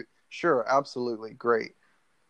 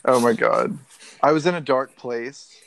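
louder mock-contrite confession; apology video voice; 5 dB louder than usual. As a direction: play the repentant YouTuber. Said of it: "I guess I sound like a YouTube apology video".

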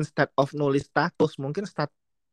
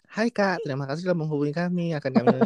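bright scripted auto-reply; chirpy admin template voice; customer service voice; 4 semitones higher than usual. Retold or imitated. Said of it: "langsung auto reply dia". (suara customer service yang ramah)

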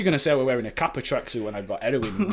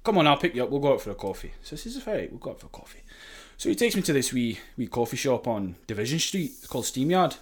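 convincing fake Scottish accent; put-on Scottish accent; 3 dB quieter than usual. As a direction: tell it in an assumed Scottish accent. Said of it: "I'm not even Scottish".

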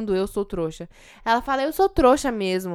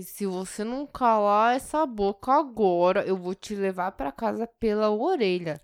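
sweet threat. Retold or imitated. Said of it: "fala assim".

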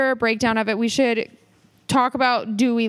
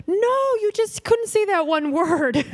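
put-on boyfriend voice; 9 semitones higher, slower than usual. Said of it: "And he's like".

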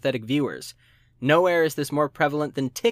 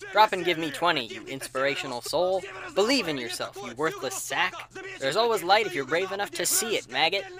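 barked motivational drill orders; drill sergeant; 2 semitones higher than usual. Acted. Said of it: "motivational drill sergeantry".

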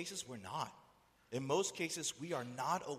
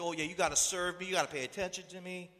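mock entitled demand, voice raised; entitled complainer; 4 semitones higher, 4 dB louder than usual. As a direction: imitate someone demanding attention. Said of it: "act as if, you know, they're entitled".

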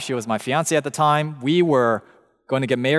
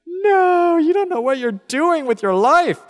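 much higher, squeaky inner protest; imitating his own horrified inner voice; inner cringe; 14 semitones higher, 4 dB louder than usual. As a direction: wince inside as they say it. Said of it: "I begin to sort of melt in my seat".

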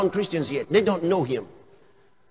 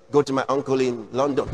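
mock order; 6 semitones lower, faster than usual. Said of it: "And then they say".

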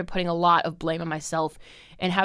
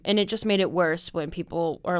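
usual speaking voice

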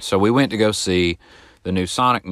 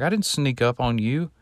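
higher-pitched mimicry of a mad man; retold huffy denial, raised in pitch; imitated indignant denial; 6 semitones higher than usual. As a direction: protest as the offended party, voice pitched up. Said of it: "he was still mad".

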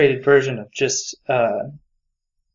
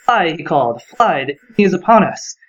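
loud cry; 3 semitones higher, 4 dB louder than usual. Retold or imitated. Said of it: "sprang forward with a loud cry".

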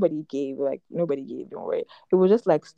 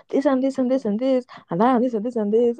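higher sing-song listing of complaints; mimicked rant; 4 semitones higher, 3 dB louder than usual. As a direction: parody his endless list of grievances. Imitating boyfriend's rambling list of grievances.

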